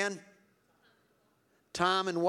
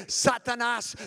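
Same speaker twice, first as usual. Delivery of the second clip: rebuking preacher shout; 6 semitones higher than usual. Retold or imitated. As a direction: cry out the rebuke with full force. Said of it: "and he'd say".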